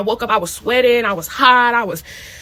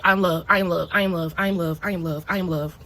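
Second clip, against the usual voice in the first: calm mantra; 4 semitones lower, 3 dB quieter than usual. Retold or imitated. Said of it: "instructions start saying".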